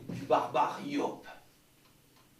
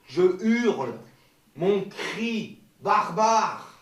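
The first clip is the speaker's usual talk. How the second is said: declaiming loudly; 3 semitones higher, 5 dB louder, much slower than usual. Shown as a demonstration. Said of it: "Le phonie est tout à fait clair".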